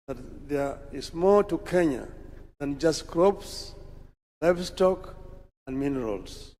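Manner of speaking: measured, deliberate speech read from a prepared text; formal speech. Acted. Leader addressing Madaraka Day crowd, formal speech delivery. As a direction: address the dignitaries with steady official gravity.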